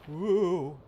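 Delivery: high excited whoop; cheer. Real, not acted. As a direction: celebrate the jump. Successful jump.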